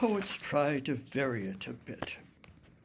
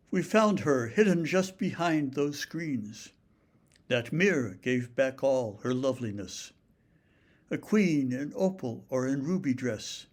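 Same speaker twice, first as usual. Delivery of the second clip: poem reading. Shown as a demonstration. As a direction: read the sonnet aloud with care. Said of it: "I want to read you a sonnet".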